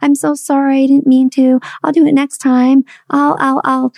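high, stammering guilty apology. Retold or imitated. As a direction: grovel to the child, tripping over words. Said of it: "pool of guilt, apologies".

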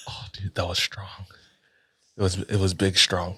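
dazed, still feeling the burn; smelling salts. Real, not acted. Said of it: "it instantly burned my nose".

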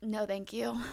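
a breathless no thanks under the breath; whispered refusal. Real, not acted. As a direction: whisper it, flat no. Refusing a cave concert.

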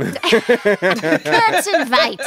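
slow, laughing fake German; hammed-up German pronunciation; mock German accent. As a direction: butcher it in a drawn-out German accent. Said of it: "butchering the word now".

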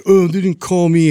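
lightly voiced kid, high and let down; son's deflated voice. Son telling dad he wasn't called, disappointed. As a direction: imitate the boy sounding crushed. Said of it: "he's just like".

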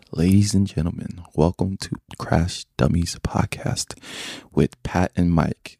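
slow, formal host welcome; a mock announcer's welcome, drawn out; announcer intro. Shown as a demonstration. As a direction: roll it out like a show announcer. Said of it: "All right, listen to this".

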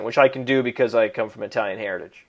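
ordinary talk, nothing marked

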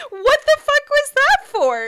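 loud, high, grossed out; disgusted outburst. Real, not acted. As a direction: shout it in disbelief. Disgusted reaction to gross scene.

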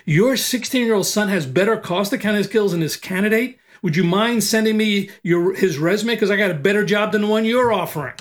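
high, mocking question thrown back at him; wise-ass echo. Recruiter mocking the yelling CFO, sarcastic wise-ass echo. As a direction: throw his own line back, smug and sarcastic. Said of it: "I'll be a wise ass".

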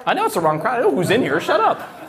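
high, playful mock protest; mock indignant. Real, not acted. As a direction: tease back at the heckler. Joking back at a heckle.

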